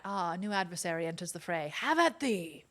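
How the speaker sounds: mock-heroic challenge, building to a cry; duelling cat. Cat meeting a new adversary, mock-heroic challenge. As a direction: declaim it like a theatrical swordsman.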